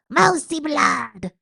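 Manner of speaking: high, loud, slow bloodthirsty cry; shout. A narrator's reading. Rat shouting for the mouse's blood. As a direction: howl it for blood. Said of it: "shouted one rat".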